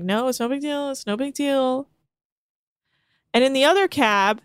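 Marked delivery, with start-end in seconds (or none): 0.0-1.9 calming. Retold or imitated. Crewmates talking down an angry friend, calming imitation. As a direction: talk him down, mock-placating. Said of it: "just calming him down".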